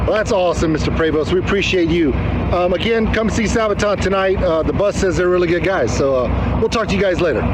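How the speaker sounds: high, bright-eyed interviewer bit; hammy reporter voice. Pretend. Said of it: "I gave the bus a Texas accent".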